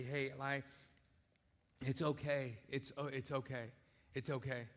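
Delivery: soft, gentle it's okay; reassuring acceptance. Retold or imitated. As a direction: say it calmly to reassure. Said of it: "with a level of acceptance and say".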